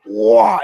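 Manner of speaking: high imitated engine wail; sudden vocal engine whoosh; full-throttle engine roar. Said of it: "Wide open throttle".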